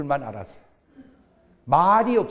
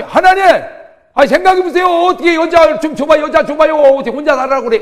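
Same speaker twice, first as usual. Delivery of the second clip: high, loud pleading whine, faster at the end; Adam begging God; 12 semitones higher, 15 dB louder than usual. Acted. Adam loudly begging God for a woman, high and whiny. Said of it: "아담이".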